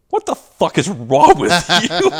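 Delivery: high, loud, laughing disbelief; mock outraged boss. Boss scolding comedian after the show, high and laughing.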